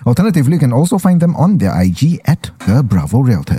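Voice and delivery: radio voice. Acted. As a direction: read it like a radio sponsor spot. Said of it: "when you use your radio voice, ah, you go very soft".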